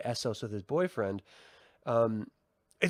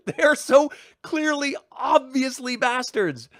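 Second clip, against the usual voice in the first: high, loud laugh-cry through the words; laughing mockery; 11 semitones higher, 6 dB louder than usual. Real, not acted. Viewer laughing at the show's bastard children. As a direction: crack up while calling them bastards.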